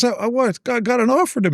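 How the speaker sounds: high-pitched imitated pitch to a friend; Bruce Baumgartner. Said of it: "And he goes".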